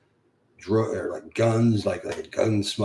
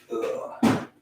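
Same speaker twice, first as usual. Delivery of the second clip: groan. Real, not acted. Fiddling with the lights.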